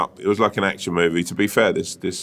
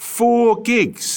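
astonished; 14 semitones higher than usual. Real, not acted. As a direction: shriek it in disbelief. Repeats in disbelief.

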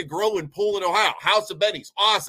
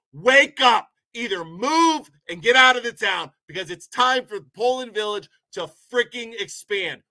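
angry shout; 3 semitones higher, 4 dB louder than usual. Real, not acted. Vlogger yelling at old residents to wake up, a real angry shout. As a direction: shout them awake in anger.

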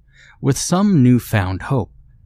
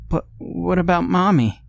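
put-on higher child's whine; child whining; 9 semitones higher than usual. Little son asking father about Mommy, whining child voice. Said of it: "Benjamin whined".

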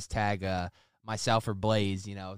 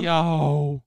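excited shout; 7 semitones higher, 7 dB louder than usual. Real, not acted. Echoing the hyped shout-out.

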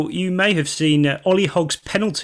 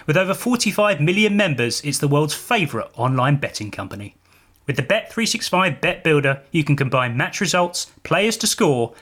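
hyped betting ad. Acted. Ad read over music.

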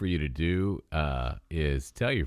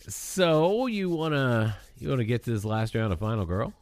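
teasing host voice; 5 semitones higher than usual. Real, not acted. Teasing cohost with the round.

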